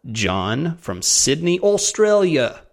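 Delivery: a deliberately bad Australian accent, drawn out slowly with the pitch jumping up on Australia. Host reads an Australian listener's name in a slow, hammed-up bad Australian accent. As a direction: ham up a terrible Australian accent for the Aussie listeners. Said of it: "That was, that one was really bad".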